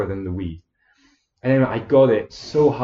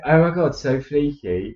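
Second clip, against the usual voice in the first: Essex accent; 3 semitones higher than usual. Shown as a demonstration. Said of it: "in an Essex accent".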